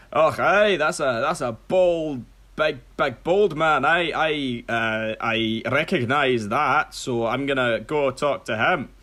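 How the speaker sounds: hammed-up Scottish-style ogre, halting; Shrek. Ogre spots a bald man and recognises him, halting ogre voice. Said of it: "and he's like".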